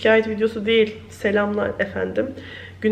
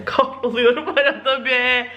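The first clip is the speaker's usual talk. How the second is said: rueful laugh; 3 semitones higher than usual. Real, not acted. Laughing while complaining.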